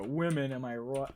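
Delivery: attempted British accent, not quite landing; bad British accent. Streamer imitating Tommy to chat, shaky attempt at British accent. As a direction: have a clumsy go at a British accent. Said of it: "I can't do a British accent".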